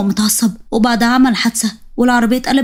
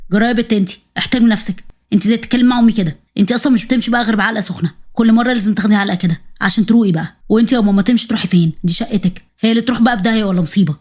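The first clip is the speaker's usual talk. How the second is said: lowered voice, harsh scolding of the wife; the husband threatening her, voice dropped; angry husband. Acted.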